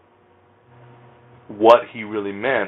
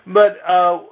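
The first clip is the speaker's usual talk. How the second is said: much higher, squeaky, embarrassed voice; awkward squeak; slower than usual. Real, not acted. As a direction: squeak it out like a flustered fan. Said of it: "I feel awkward".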